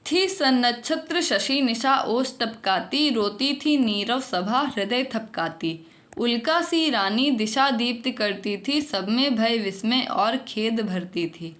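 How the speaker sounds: poem recital. Acted.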